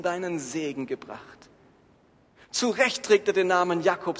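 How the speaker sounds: lebhaft gestaltete Bibellesung mit verteilten Stimmen; dramatische Schriftlesung. Acted. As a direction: die Geschichte packend vortragen, Esaus Flehen gesteigert. Dramatic reading of Bible text. (Prediger liest der Gemeinde Genesis 27 dramatisch vor)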